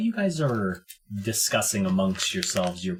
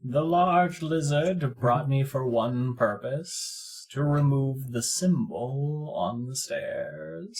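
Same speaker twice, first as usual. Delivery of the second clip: measured, slow oracle voice; slow NPC voice; 3 semitones higher, 3 dB louder, slower than usual. Acted. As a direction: speak slowly like a seer.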